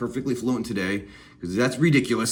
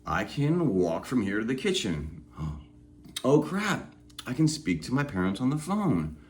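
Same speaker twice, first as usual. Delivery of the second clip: amazed; 4 dB quieter than usual. Retold or imitated. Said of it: "you're like".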